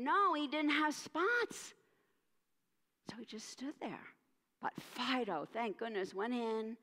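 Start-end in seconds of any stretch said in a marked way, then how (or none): 3.1-4.1 whispered "So he just stood there."; hushed narration. A narrator's reading. Narrator telling children of Spot's frozen fear, whispering. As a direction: drop to a breathless whisper.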